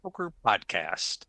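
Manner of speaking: scripted announcer read, punchy openings to phrases; podcast host intro. Acted. Host opens the Forums edition for listeners, announcer intro. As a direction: welcome listeners in like a show host.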